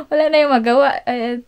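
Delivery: loud gleeful laughing. Real, not acted. Mother tells daughter dad can't stop them, laughing loudly. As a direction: laugh it off in triumph. Laughing triumphantly about gifts.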